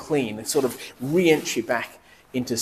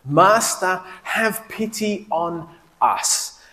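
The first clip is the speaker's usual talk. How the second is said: calling out; 6 semitones higher, much slower than usual. Retold or imitated. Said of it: "called out in a loud voice".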